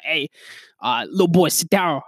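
lightly imitated rapper boasting; a hint of six nine's tough talk; six nine impression. Telling a little boy to sit down, six nine impression. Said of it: "I went from a New York accent to six nine".

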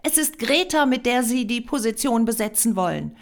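loud, high-pitched accusation. A narrator's reading. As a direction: accuse him, outraged and loud. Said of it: "wenn Sie jetzt laut werden".

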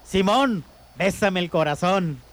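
slow, solemn dying father; mock deathbed voice. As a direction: call each son, drawing out the request. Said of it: "Un padre antes de morir llama a sus hijos".

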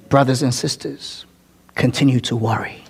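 sarcastic low aside to the congregation; mock sarcastic advice. Mock advice to keep worrying.

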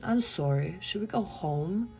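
playfully punched-up Canadian accent. Shown as a demonstration. Podcaster testing whether they sound Canadian, playful Canadian accent. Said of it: "Do I sound Canadian?".

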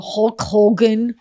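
Hulk Hogan in a Jewish accent. Shown as a demonstration. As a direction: say Hogan like a Yiddish-speaking grandpa. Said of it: "that same sound".

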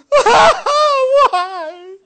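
high laughing question. Real, not acted. Preacher laughing at his own example, high and amused. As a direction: squeak it through a laugh.

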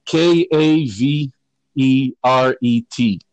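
slow, letter by letter; spelling it out. Shown as a demonstration. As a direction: spell each letter out slowly. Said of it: "please, if you could spell that".

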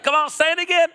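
high, loud call to the crowd; loud exhortation. Real, not acted. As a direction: fire up the congregation. Preacher urging congregation.

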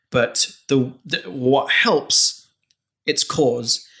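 mic picking up hall reverb; echoey. Real, not acted. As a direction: voice echoing in a big room. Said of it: "I sound really echoey".

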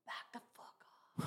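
whispered, very soft warning; harsh whisper. Real, not acted. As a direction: hiss it under your breath. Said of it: "that was so you".

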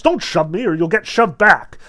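angry warning. A narrator's reading. Spectator to a shover in the crowd, mild angry warning. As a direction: warn them off with some heat.

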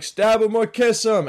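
high, loud mock shout; crazy old heckler. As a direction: holler it like a spectator goading them. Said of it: "they're, like, saying crazy shit".

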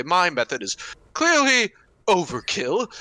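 measured, slow in-character suggestion; a knight politely handing off the threat; lightly voiced Roland. Roland addresses companions in character.

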